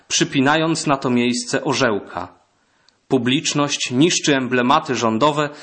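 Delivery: measured literary read-aloud; solemn reading of a historical account; memoir reading. Acted. Actor reads historical memoir aloud.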